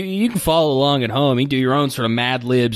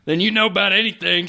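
lightly voiced cowboy, pitched up; a hint of a cowboy voice; cowboy drawl; 6 semitones higher than usual. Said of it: "in this cowboy voice".

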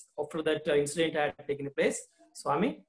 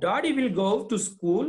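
lightly voiced mother, higher and quicker; coaxing mother; 3 semitones higher, faster than usual. Teacher voicing the mother reassuring Swami, coaxing. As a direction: coax him gently toward the truth.

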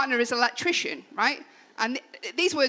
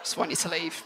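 much softer, lower under-the-breath wish; muttered aside; 6 semitones lower, 9 dB quieter, faster than usual. Retold or imitated. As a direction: mutter it so he can't hear. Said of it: "I was like".

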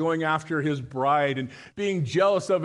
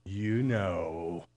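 parrot voice; 7 semitones lower, 5 dB quieter than usual. Acted. Parrot's punchline.

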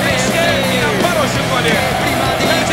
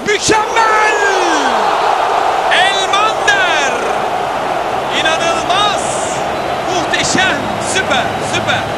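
screaming football commentator; 4 semitones higher, slower than usual. Real, not acted. Goal scored, commentator erupts.

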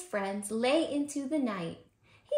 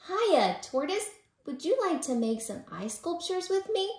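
perky Rabbit; 7 semitones higher than usual. A narrator's reading. Rabbit inviting Tortoise to make ice sculptures, perky. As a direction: call out perkily, pitched up.

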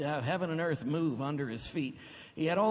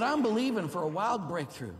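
declaring faith; 5 semitones higher, 4 dB louder than usual. Retold or imitated. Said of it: "But she said".

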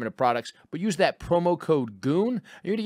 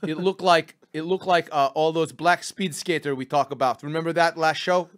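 hammed-up Russian host accent. Host explaining Goon Log to his producer, Russian accent. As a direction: praise and joke in broken Russian-accented English. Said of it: "but Russian".

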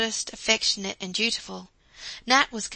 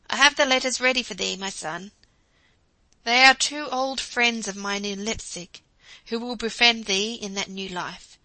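a hint of a kind old teacher, louder; lightly voiced fatherly professor; 6 dB louder than usual. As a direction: gently send your student off with advice. Professor kindly advises Nat.

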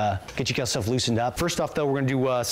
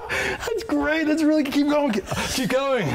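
put-on voice; 14 semitones higher, slower than usual. Host replying in a put-on voice.

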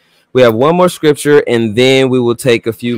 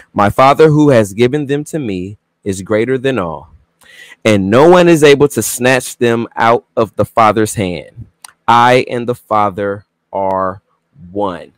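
scripture reading. Acted. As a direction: read the verse out solemnly, pausing between phrases. Reads scripture aloud.

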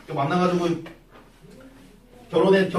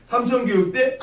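scornful disbelief; 6 semitones higher than usual. Retold or imitated. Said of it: "뭐 이렇게 하는 거야".

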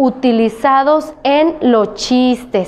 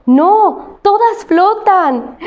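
joke punchline; 7 semitones higher, much slower than usual. Acted.

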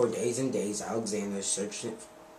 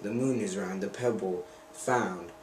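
magic lizard. Acted. Narrator voices the magic lizard.

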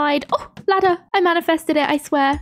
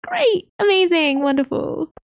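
sarcastic great; 4 semitones higher than usual. Real, not acted. Sarcastic at needing snail.

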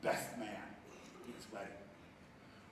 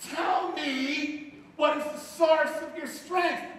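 coaxing woman's plea; 12 semitones higher, 9 dB louder, much slower than usual. Acted. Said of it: "She said".

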